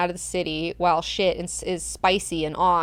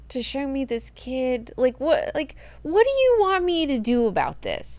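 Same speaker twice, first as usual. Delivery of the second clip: higher, whiny mock complaint; lightly voiced aggrieved man; upset Duncan; 6 semitones higher than usual. Duncan whines at Siona over the kid, higher.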